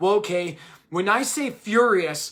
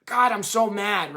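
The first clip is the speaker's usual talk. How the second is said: slow, dragged-out mock anger; mock angry; slower than usual. Shown as a demonstration. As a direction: say it as the version without the softener. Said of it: "add what we call a softener".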